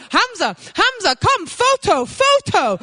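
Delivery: high excited calling; mock eager mother calling. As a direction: call the boy over eagerly. Mother calling son for photo.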